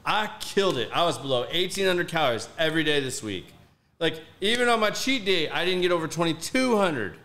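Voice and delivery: acted-out exasperated complaint; retold pissed-off venting. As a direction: vent your frustration, retelling it. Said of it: "I was so pissed off".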